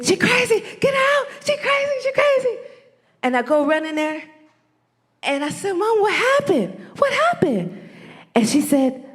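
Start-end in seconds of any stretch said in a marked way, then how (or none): 0.0-2.6 high mock shriek of a frightened old mother; imitating screaming woman. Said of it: "I could hear her screaming". 5.7-7.9 alarmed question. Retold or imitated. Rushing in to panicked mother.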